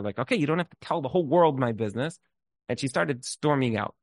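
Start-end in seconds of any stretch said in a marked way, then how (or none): 0.2-2.2 quick, mildly heated retort; mock screaming at half strength; retold furious customer. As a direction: imitate an offended customer firing back. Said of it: "she started screaming at the teller".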